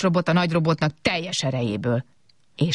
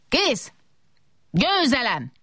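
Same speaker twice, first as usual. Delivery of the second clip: triumphant cry; 9 semitones higher, slower than usual. A narrator's reading. Big robot finishing first, triumphant cry. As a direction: call out the win in high triumph. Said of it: "kiáltotta".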